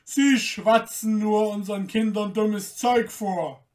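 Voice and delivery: scornful shout. Acted. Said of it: "rief einer der Wächter".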